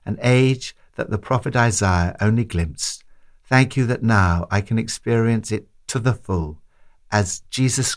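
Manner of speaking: measured, understated prayer voice. Acted. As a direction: pray it steadily, slowing towards the close. Closing prayer after the reflection.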